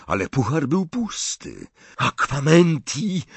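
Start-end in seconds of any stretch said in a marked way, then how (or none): 2.0-3.2 shouted spell. A narrator's reading. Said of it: "powtórzył Harry".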